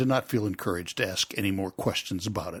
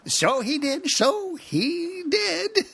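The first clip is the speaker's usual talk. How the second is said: sighing Gryphon; 8 dB louder, much slower than usual. Acted. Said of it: "sighing in his turn".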